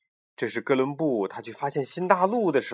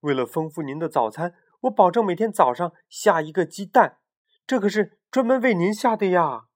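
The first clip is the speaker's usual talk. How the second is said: higher, eager bargaining; eager pitch; 5 semitones higher than usual. Acted. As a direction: sell the idea fast. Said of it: "急中生智地喊道".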